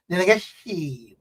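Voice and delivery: Guyanese country twang with style; rhythmic Corentyne twang. Shown as a demonstration. So that they can understand, Guyanese twang. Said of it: "you gotta say it so that they can understand".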